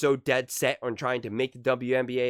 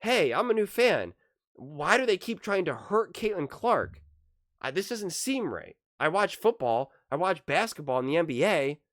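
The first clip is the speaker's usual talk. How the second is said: raised-pitch voice of an earnest new fan; a new fan calmly calling out the fouls; concerned new fan; 3 semitones higher than usual. Retold or imitated. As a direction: speak as a puzzled new fan who senses something wrong. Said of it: "They're saying".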